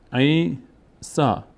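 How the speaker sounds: عیسا read very slowly with a long آ at the end; teacher sounding out عیسا slowly. Shown as a demonstration. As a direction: drag out عیسا for the pupils.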